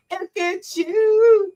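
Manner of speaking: choked up, half crying; emotional, near tears. Real, not acted. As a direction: voice catching as the tears come. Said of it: "I get emotional".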